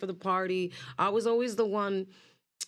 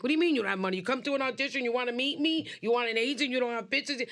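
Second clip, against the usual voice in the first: higher, pushy disbelief; incredulous agent; 5 semitones higher, faster than usual. Retold or imitated. Agent scoffing at a girl with no pictures, incredulous. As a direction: scoff at her nerve.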